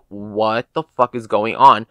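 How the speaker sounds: slow, drawn-out mock disbelief; imitated shocked stare. Security guard stares at the machete in the backpack, imitated slow shock. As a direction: stretch it out, imitating someone dumbfounded. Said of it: "still looks at me like".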